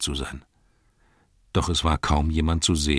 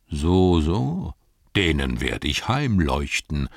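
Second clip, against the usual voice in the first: slow grumbling threat; threatening innkeeper; slower than usual. Acted. Innkeeper Butterblüm about to chase off intruders, slow threat. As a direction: mutter a threat, slowly. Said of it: "hörte man Butterblüms Stimme".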